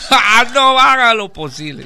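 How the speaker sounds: high, loud begging; hammed-up desperate plea; pleading farmer. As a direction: cry out an appeal. Farmer begs Death.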